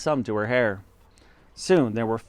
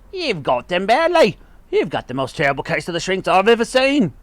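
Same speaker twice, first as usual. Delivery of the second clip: high, forceful accusation, speeding up; accusing husband; 6 semitones higher, 5 dB louder than usual. Acted. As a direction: hammer the diagnosis at her. Husband accusing wife, finger pointed.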